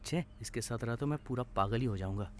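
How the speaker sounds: very soft, low muttered complaint; grumbling to himself. Acted. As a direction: mutter it well under your breath. Grumbles to himself about friend. (दबी आवाज़ में बड़बड़ाते हुए)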